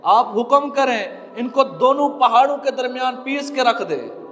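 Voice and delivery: earnest sermon delivery in measured phrases; preaching. Real, not acted. Preacher warning believers they will answer to Allah, earnest preaching. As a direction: preach it phrase by phrase, pausing between points.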